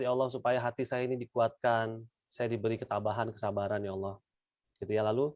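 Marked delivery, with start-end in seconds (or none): 0.0-4.2 quiet prayer. Shown as a demonstration. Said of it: "Titip satu ayat".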